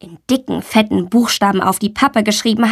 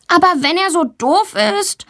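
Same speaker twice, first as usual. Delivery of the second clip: defensive; 10 semitones higher than usual. A narrator's reading. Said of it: "verteidigt sie sich".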